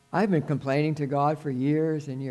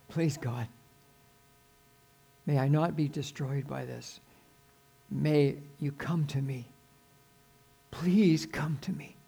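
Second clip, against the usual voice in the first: pleading prayer; 3 dB quieter than usual. Acted. Acting out a desperate prayer.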